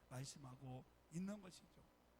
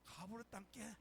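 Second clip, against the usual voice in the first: 가부르 땅께 in a Jeolla dialect drawl. Retold or imitated. Lightly imitated Jeolla dialect. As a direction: pastor mimics Jeolla folk saying it. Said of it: "전라도 사람들은 뭐라고 합니까".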